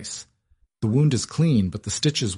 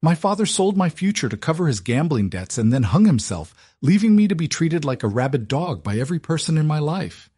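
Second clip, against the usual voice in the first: high, trembling furious outburst; fierce anger; 8 semitones higher than usual. A narrator's reading. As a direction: let the anger pour out at him. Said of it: "her voice trembling with sudden, fierce anger".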